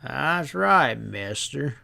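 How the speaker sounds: lightly voiced sly drawl; a hint of a knowing stableman. Stableman slyly sizing up the riders, light drawl.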